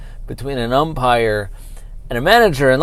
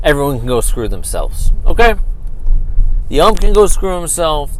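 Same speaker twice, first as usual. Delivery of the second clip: louder, heated, half-joking tirade; fed-up outburst; 3 semitones higher, 6 dB louder than usual. Real, not acted. Host telling critics and the league off, heated outburst. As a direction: tell them all off, building heat.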